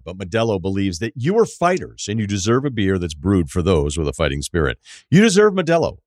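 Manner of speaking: punchy beer commercial voice; ad read. Acted. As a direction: pitch it like a radio ad. Sponsor ad read.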